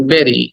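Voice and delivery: "বেরি" with a short e, beh-ree; correct pronunciation. Shown as a demonstration. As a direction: model "বেরি" crisply for learners, falling at the end. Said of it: "বলো আমার সাথে সাথে".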